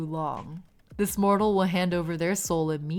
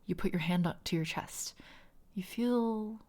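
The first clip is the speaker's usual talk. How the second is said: story narration. A narrator's reading. GM narrates the soul crossing.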